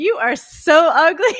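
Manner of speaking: bellowing, full-throated, very loud, drawn-out scream. Retelling a scene from the movie They Live: imitating someone screaming. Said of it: "The way he just screams it out".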